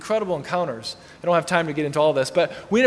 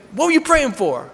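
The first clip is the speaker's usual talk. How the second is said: lightly voiced woman, higher and pressing; suspicious woman; 6 semitones higher than usual. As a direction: press him with a higher pitch. Woman presses him, imitated.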